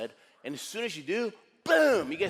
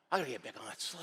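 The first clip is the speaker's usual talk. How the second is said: softer, lower self-talk; reluctant resolve; 4 semitones lower, 6 dB quieter, faster than usual. Acted. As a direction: say it quietly to yourself. Talks himself back onto sled.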